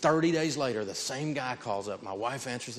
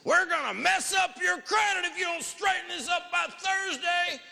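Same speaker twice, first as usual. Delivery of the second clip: much higher, slow shouted threat; mock collector threat. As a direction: bark the threat like a bullying collector. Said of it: "use your credit report as a paper club".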